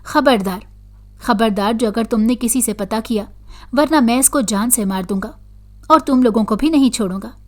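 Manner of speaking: a mild mock yell in a heavy voice, threatening death; heavy shouting threat. Jinn in the girl threatens the parents, mild heavy-voiced yell. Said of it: "चिल्लाने लगी और भारी आवाज़ में".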